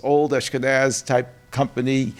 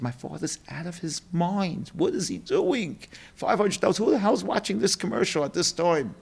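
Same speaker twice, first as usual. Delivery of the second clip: higher, exasperated son; exasperated disbelief; 4 semitones higher, 3 dB quieter than usual. Retold or imitated. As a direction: fret as if dad has lost it. Son panics over wasted money.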